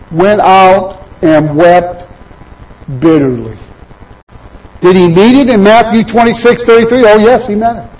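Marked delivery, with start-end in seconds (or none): 0.1-3.6 slow, low, drawn-out sorrow; understated grief, dropping low; sorrowful. Acted. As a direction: let the words weep, slowly. Reading Peter's bitter weeping.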